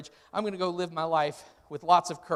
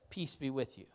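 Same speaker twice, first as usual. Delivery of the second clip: soft greeting; 5 semitones lower, 12 dB quieter than usual. Acted. Jesus greeting frightened disciples.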